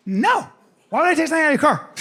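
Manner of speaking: put-on high, protesting kid voice; lying son's denial. Son denies taking stuff from car, high innocent protest. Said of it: "He goes".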